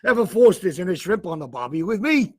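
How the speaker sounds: bad Australian accent; hammed-up Australian accent. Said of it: "one of the worst Australian accents".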